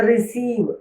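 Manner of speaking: റിസീവ് said slowly, weight on the second syllable; second-syllable stress. Shown as a demonstration. Teacher shows a verb example, റിസീവ് slowly stressed on സീവ്. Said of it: "second സിലബിളിലായിരിക്കും അതിൻ്റെ stress".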